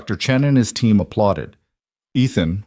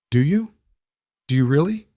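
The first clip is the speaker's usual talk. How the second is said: pitched up, sharp and challenging; edge in her voice; 6 semitones higher than usual. A narrator's reading. Wife lashing out at husband in the car, edgy and raised. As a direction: let the hurt push back at him. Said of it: "There was an edge to her voice".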